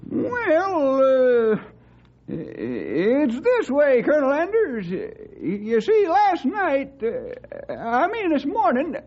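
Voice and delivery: slow, halting, stammering start; hesitant stalling. Acted. Stumpy stalls before telling the colonel the herd vanished, halting stammer. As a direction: stall for time, tripping on words.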